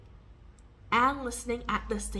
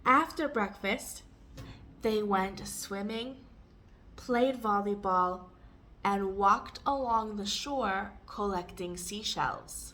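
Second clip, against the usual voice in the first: measured model reading for learners; slower, with pauses. Shown as a demonstration. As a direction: pause between each phrase of the list. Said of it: "read it more slowly and take pauses".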